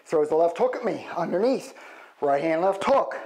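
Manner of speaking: calling combos mid-punch; hitting a punching bag. Shown as a demonstration. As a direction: count punches while throwing them. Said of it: "we can add to it".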